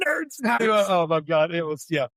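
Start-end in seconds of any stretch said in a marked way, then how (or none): 0.1-0.4 Ogre's yell. Retold or imitated.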